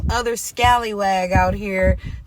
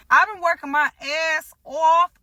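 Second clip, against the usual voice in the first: higher, louder, proudly declaring; proud outburst; 8 semitones higher, 4 dB louder than usual. Real, not acted. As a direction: belt out how hard you worked. Proud of her hard work.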